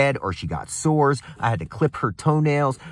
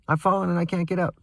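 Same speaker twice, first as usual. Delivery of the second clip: mock helpless plea; 7 semitones higher, faster than usual. Mocking the neighbour's plea for help.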